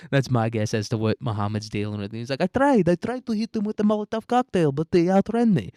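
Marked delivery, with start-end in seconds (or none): 2.4-5.7 very high, louder put-on voice; mock pleading excuse. Mohammed making excuses to his CIA handler, high mock pleading. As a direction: play a hapless underling protesting to the boss.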